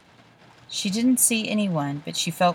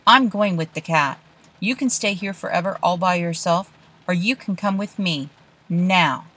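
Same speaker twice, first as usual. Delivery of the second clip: fed-up ultimatum; 3 dB louder than usual. Acted. Olive's patience runs out.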